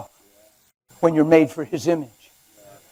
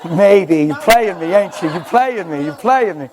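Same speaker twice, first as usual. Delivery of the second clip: teasing laugh; 2 semitones lower than usual. Real, not acted.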